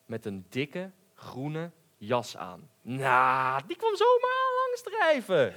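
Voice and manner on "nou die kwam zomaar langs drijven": high, loud swan call. A narrator's reading. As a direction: call out gaily across the water. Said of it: "riep hij".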